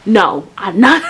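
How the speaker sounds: loud, indignant refusal; firm refusal. Retold or imitated. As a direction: refuse flat out, raising the voice. Retold angry refusal.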